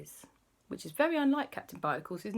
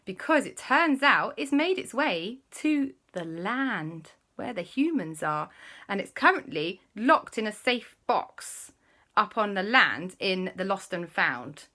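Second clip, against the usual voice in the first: a touch higher, careful explaining; lightly voiced explainer; 5 semitones higher, 4 dB louder than usual. Kwasi explaining the ring is on land, lightly raised. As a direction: break the bad news gently. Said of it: "Kwasi said".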